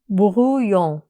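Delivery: brouillon drawn out slowly, each syllable clear; slow model word. Shown as a demonstration. Teacher repeating brouillon slowly for students to copy.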